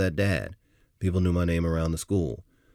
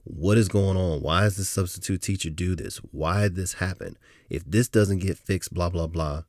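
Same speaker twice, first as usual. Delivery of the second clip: retold yelling; 3 semitones higher, 4 dB louder than usual. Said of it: "yelling at the top of my lungs".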